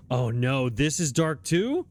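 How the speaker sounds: sharp gasp then a slow rising oh no; dismayed gasp. Real, not acted. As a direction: catch your breath, then dread the dark room. Room turns out dark.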